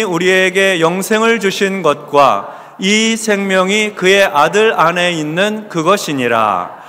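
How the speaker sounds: slow, measured verse recitation; deliberate, evenly paced recital; scripture recitation. Real, not acted. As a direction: lead a congregation reciting scripture from memory, drawn out. Leads congregation reciting memorized verse.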